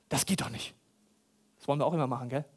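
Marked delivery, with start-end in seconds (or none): 0.1-0.7 hushed unvoiced aside; whisper. Preacher confides his shock to the church, whispered. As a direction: breathe it as a secret.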